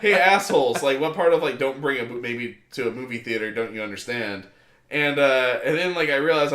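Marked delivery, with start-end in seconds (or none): 0.0-4.5 angry confrontation. Retold or imitated. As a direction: confront the strangers head on. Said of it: "I'm like".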